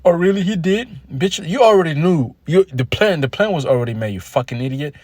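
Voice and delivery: hammed-up angry shop-thief voice; mocking crackhead woman. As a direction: throw it back at her like an outraged accomplice. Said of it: "the crack chick's like".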